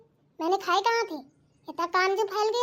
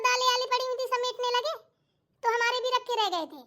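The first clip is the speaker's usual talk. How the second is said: higher-pitched aggrieved explanation; put-upon complaint, pitched up; protesting self-defence; 4 semitones higher than usual. Acted. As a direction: plead your case to mother-in-law. Defending herself to mother-in-law.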